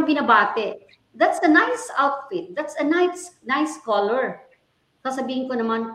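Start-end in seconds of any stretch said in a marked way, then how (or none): 1.1-4.4 imitating a slow, higher, hollow polite compliment; a mock empty nicety, stretched out; insincere compliment. Strangers in the elevator praising her outfit, mock insincere. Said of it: "parang hindi naman sila sincere".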